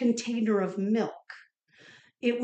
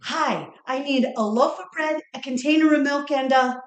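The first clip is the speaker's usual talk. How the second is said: put-on brighter child voice, reciting her list then panicking; a child rattles off her list, then falters; little girl at the store; 4 semitones higher than usual. Little girl reciting a shopping list to the clerk, then panicked. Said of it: "and she goes".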